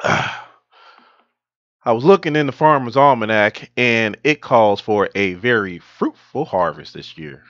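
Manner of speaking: put-on Southern farmer accent; hammed-up Southern US accent. Shown as a demonstration. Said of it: "I can do a Southern accent".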